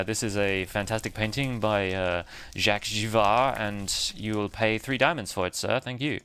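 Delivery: hammed-up faux French accent, like a snooty gallery seller. Pricing a painting for a customer, in a faux French accent. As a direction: play a pompous French art dealer, lightly. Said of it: "saying that in a faux French accent".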